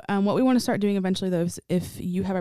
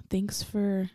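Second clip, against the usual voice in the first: joking; 3 dB quieter than usual. Pretend. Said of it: "No, I'm just kidding".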